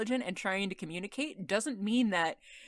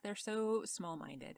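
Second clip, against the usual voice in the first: whispered; 2 semitones higher, 5 dB quieter, slower than usual. Acted. Mock scorn at characters.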